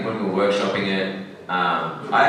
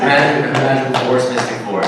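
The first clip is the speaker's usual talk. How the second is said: mock American accent, a touch louder; 6 semitones higher, 6 dB louder than usual. Shown as a demonstration. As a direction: try out an American accent for the fans. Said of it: "Try an American accent?".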